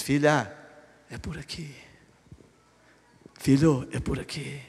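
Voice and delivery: put-on soft, low and quiet, guiding a child; a father gently showing the way; tender fatherly hush. Father quietly guiding his daughter and son, tender.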